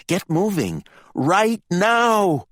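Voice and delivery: high command building to a shout; urgent order. A narrator's reading. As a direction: order them to move, rising to a yell. Candy orders the squabbling brothers off.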